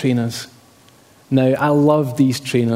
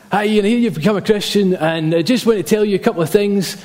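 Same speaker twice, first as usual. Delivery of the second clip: higher-pitched imitation of a friend's ranting dad; 5 semitones higher than usual. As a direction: launch into a mock rant. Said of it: "in a bit of a rant".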